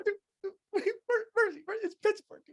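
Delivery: hammed-up drunk Pittsburgh bro shouting; impression of a rowdy friend. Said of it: "then he gets mad".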